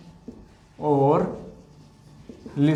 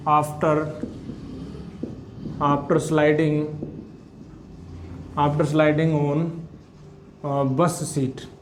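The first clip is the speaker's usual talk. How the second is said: very slow, each word spaced; slow dictation; much slower than usual. Shown as a demonstration. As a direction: dictate slowly for students to copy. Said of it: "dictating notes slowly".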